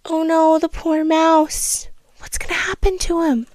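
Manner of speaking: hushed, mock-anxious whisper; a pretend-scared whispered aside; mock worried whisper. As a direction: whisper as if afraid for the mouse.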